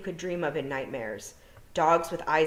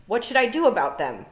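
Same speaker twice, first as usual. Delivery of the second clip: put-on anxious girl; 6 semitones higher, 7 dB louder than usual. Tiffany asks toad.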